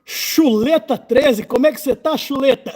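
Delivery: hearty Portuguese hello; loud greeting. Real, not acted. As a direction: call out the greeting warmly across the room. Greeting friend loudly in Portuguese.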